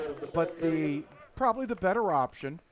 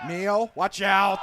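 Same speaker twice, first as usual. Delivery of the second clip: excited call; 3 semitones higher, 6 dB louder, slower than usual. Real, not acted. Live play-by-play call.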